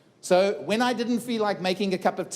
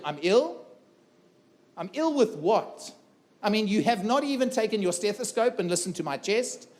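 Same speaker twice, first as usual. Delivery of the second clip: higher, incredulous protest ticking off checks; indignant disbelief; 3 semitones higher than usual. Retold or imitated. Patient protesting to the doctor, incredulous and indignant.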